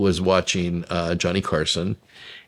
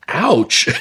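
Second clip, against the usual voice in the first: mock wince; 7 semitones higher, 4 dB louder than usual. Reacting to a crude joke.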